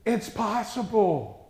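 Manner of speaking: slow, weighty It's possible; preacher's slow emphasis; slow emphatic. Acted. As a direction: lean hard on It's possible. Preacher stresses key phrase.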